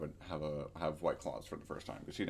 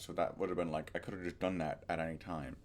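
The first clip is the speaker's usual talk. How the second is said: speaking with a retainer in; wearing a retainer; 3 semitones lower than usual. Real, not acted. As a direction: talk around a dental retainer. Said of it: "Also, I have my retainers in. Sorry".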